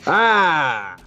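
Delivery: high-pitched, drawn-out delighted cry; very excited voice. Acted. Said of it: "a very excited voice".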